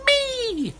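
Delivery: very high squeaky mouse voice; little mouse. Acted. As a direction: pipe up like a tiny mouse. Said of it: "said a mouse".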